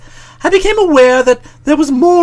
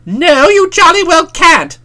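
firm refusal; 8 semitones higher, 5 dB louder, slower than usual. A narrator's reading. Bertie refusing first aid.

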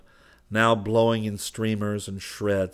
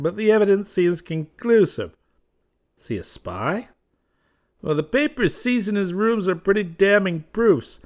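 much higher, louder voice of the American attaché; agitated attaché; 9 semitones higher, 9 dB louder than usual. Acted. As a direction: deliver the bad news tense and clipped. Southwark reports the arrest.

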